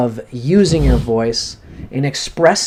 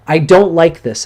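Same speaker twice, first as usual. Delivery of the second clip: higher and louder, stress on don't; angry protest; 4 semitones higher, 5 dB louder than usual. Shown as a demonstration. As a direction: punch the word don't with mounting anger. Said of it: "is a good one".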